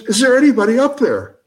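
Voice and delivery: high, loud mock yell; hammed-up cry for help from the well. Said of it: "He yells".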